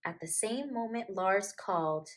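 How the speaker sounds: put-on gentle storybook reading to children; story narration. A narrator's reading. Storyteller reading a picture book to kids, gently. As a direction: read it like a bedtime picture book.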